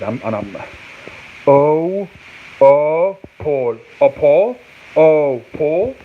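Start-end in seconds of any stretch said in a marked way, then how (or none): 1.5-6.0 "oh" held, then "Paul" tested; tentative try at "A Paul"; sounding out syllables. Shown as a demonstration. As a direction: split "Oh, pool" into slow pieces with a questioning lift. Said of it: "Is that how you say it".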